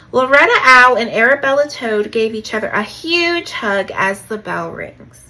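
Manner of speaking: projected storybook read-aloud; lightly acted children's story reading; story narration. A narrator's reading. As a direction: tell it to children, punching the sentence openings.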